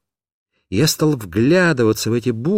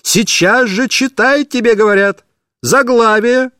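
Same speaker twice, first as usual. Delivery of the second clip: high, insistent yelled order; shouting teacher; 8 semitones higher, 4 dB louder than usual. Acted. Angry teacher yells at the stalling pupil. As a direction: demand the title at once. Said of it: "закричала".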